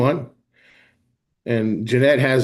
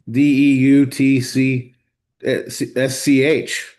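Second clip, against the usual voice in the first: slow spelling out; slower than usual. Shown as a demonstration. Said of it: "this is German".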